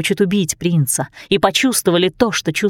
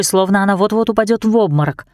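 ordinary delivery, nothing marked

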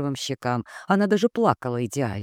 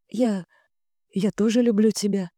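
a hint of fake trembling tenderness, higher; falsely tremulous; 6 semitones higher than usual. A narrator's reading. Wife lying to husband with fake tender devotion. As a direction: breathe it out with faked devotion. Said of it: "выдохнула я лживо-трепетно".

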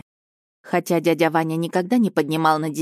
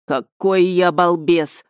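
slow, loud self-reproach; exclaiming; 4 dB louder, much slower than usual. Acted. Uncle berating himself over the stowaways, loud and slow. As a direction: drag out the exclamation in dismay. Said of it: "воскликнул Иван Иваныч".

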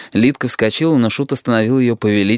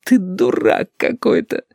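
slow, higher, near sobbing; 10 semitones higher, slower than usual. Acted. Lidka sobs at Shut, slow and high. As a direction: sob it out. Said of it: "всхлипнула она".

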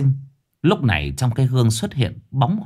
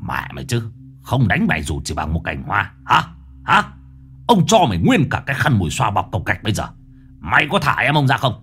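spiteful. Acted. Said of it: "hằn học".

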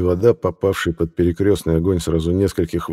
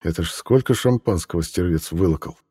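plain reading voice

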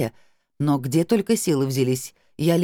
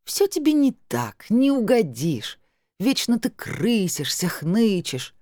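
put-on slow, higher, drunken reproach; slurry mock grievance, pitched up; drunk whine; 7 semitones higher, slower than usual. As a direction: drag it out like a tipsy sister scolding. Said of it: "пьяненько возмутилась Тамарка".

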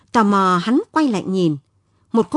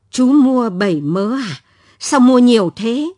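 put-on louder, astonished old seller; surprised old woman; 5 dB louder than usual. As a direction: exclaim at the generous buyer. Old seller surprised by big purchase.

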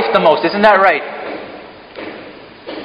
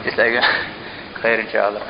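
laughing through it; 10 semitones lower, 8 dB quieter than usual. Real, not acted. Laughing at his own slip.

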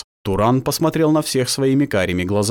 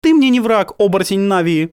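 hard and cold, louder; harsh; 10 semitones higher, 5 dB louder than usual. A narrator's reading. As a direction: lay it down harshly. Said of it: "жёстко сказала Генева".

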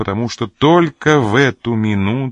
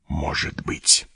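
unsteady voice; 5 semitones lower, 5 dB quieter, slower than usual. A narrator's reading. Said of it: "прибавил он нетвёрдым голосом".

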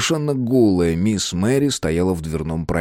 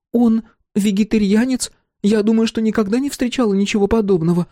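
high, earnest woman's voice; a touch of prim earnestness; prim Slick. Acted. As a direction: defend him sweetly but firmly. Slick marvels.

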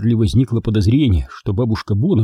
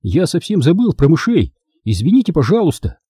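put-on higher-pitched boyish apology; earnest, raised-pitch excuse; apologetic boy; 6 semitones higher than usual. A narrator's reading. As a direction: own up and say sorry. Charlie apologises to grandmothers.

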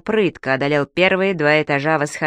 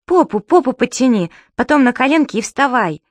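louder, higher commanding call; loud instructions; 6 semitones higher, 4 dB louder than usual. Acted. Субастик directs his father from below, loudly commanding. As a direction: coach him up from below. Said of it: "командовал снизу Субастик".

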